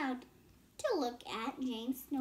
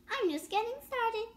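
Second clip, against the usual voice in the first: put-on eager boy line; 10 semitones higher, 3 dB louder than usual. Boy's line in story.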